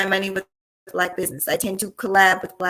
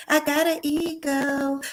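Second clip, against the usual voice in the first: drawn-out, higher, proud; slow proud boast; 6 semitones higher, much slower than usual. Real, not acted. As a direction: savor each word, slowly.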